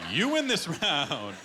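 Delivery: slow, drawn-out defeated admission; grudging concession. Retold or imitated. Admitting defeat to Derek after the customs prank, slow and grudging. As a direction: concede it slowly, beaten.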